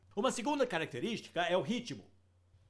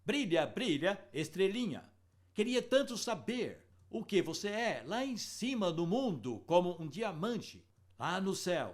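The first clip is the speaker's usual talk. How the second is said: nursery rhyme reading. Shown as a demonstration. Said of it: "versões aqui de uma poesia".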